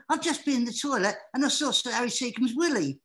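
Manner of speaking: high, loud squeaky excitement; excited retelling. Retold or imitated. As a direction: blurt it out like thrilling gossip. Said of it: "I was really excited".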